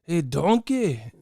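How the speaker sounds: stretched-out impression of an ogre hollering; Shrek. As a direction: call out like the cartoon ogre. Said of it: "he got Shrek body".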